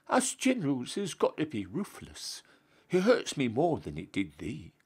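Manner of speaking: a lofty, scandalised general handing down punishment; pompous Duke. Acted. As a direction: play the Duke shocked and stern. Duke justifying himself.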